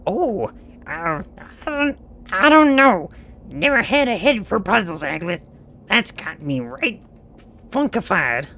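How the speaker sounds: high bewildered stammer; flustered character. Acted. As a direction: stammer out confused.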